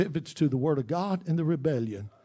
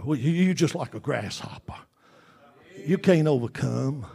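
devil's taunt; 4 semitones lower, 7 dB quieter than usual. Retold or imitated. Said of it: "And that devil's talking".

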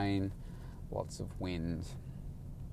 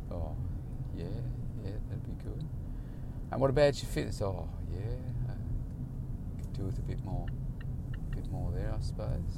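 flat client; 9 dB quieter than usual. Retold or imitated. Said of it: "imitating flat client answers".

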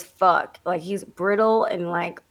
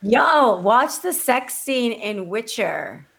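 high, loud burst that cracks; excited, voice cracking; 3 semitones higher, 3 dB louder, slower than usual. Real, not acted. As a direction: blurt it out, really excited. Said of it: "my voice cracked 'cause I got really excited".

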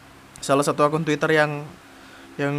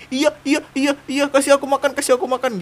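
merengek dalam hati; 8 semitones higher than usual. Retold or imitated. Suara hati cewek lapar.

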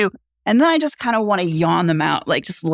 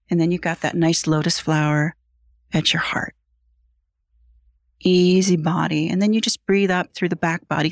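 guided meditation. Acted. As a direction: lead him down into the sand.

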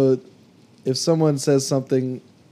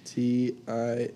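slow letters while typing; spelling it out; 6 dB quieter, much slower than usual. Real, not acted. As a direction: echo each letter slowly.

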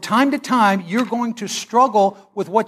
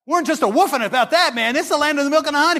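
excited spies; 5 semitones higher than usual. Retold or imitated. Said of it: "they were excited about it".

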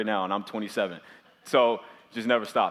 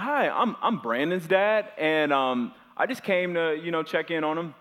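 higher, overly polite parent introduction; dad greeting the teacher, overly polite, higher; dad's polite voice; 4 semitones higher than usual. Retold or imitated. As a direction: sweetly introduce yourself to a teacher. Dad introduces himself to the class.

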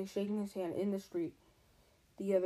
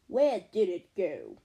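bewildered; 2 semitones lower, 6 dB louder, slower than usual. Acted. Shocked keeper.

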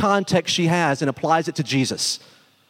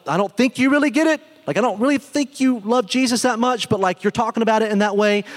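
higher-pitched, hesitant pushback; mock a hesitant, unconvinced reply in a raised pitch; imitating a politely sceptical listener; doubtful listener; 4 semitones higher than usual. Imagined doubting reply to newcomer.

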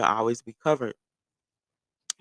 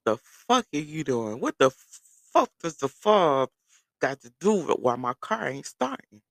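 exasperated disbelief; 3 semitones higher, 4 dB louder than usual. Retold or imitated. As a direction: retell your bafflement, leaning hard on words. Retold exasperation at mechanic.

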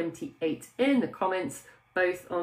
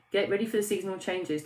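ordinary talk, nothing marked

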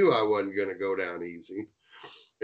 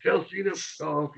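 much higher, loud mock yell while swinging a belt; imitating Lance yelling; 8 semitones higher, 4 dB louder than usual. Lance whipping the referee while he yells, much higher, mock yelling. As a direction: play the angry man chasing someone off with a belt. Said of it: "So Lance goes".

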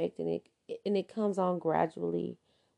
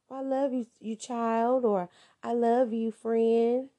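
higher, syrupy fake sweetness; mock love bombing; 3 semitones higher than usual. Narcissist love bombing after a fight, fake sweet. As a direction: lay the flattery on thick. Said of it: "they'll come back as if nothing ever happened".

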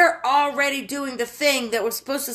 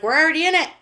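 raised, higher quoted exclamation; quoting emphatically; 7 semitones higher, 5 dB louder, much faster than usual. Retold or imitated. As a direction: call it out insistently, as someone else's line. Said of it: "he's like".

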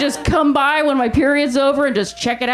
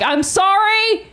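meek apology; 8 semitones higher, slower than usual. Retold or imitated. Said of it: "He was like".

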